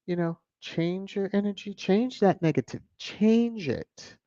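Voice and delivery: soft, high-pitched retold pep talk; gentle coaxing advice. Retelling advice given to a cousin, gentle coaxing. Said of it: "And then I said".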